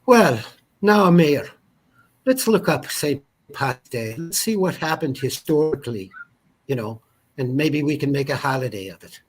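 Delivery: a hint of a pompous city mayor proposing a holiday; mayor's voice. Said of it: "the mayor decides".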